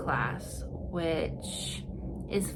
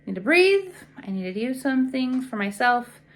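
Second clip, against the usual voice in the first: fed-up relief; 3 semitones higher, 6 dB louder than usual. Retold or imitated. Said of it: "I was like".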